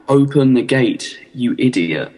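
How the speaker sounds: slow, half-hearted mock yell; retold shout. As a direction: imitate a man shouting at a kid, held back. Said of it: "pointing and shouting at the kid".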